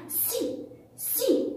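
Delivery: سي as a short syllable on its own; letter sound demo. Shown as a demonstration. Teacher pronouncing the letter for pupils, short isolated syllable. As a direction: say سي short, set apart. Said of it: "من ينطقها لنا؟".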